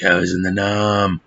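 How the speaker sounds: mock movie-veteran voice, dragged from the throat; over-the-top actor voice. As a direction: mimic a hammy war-movie soldier. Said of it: "no one talks like this".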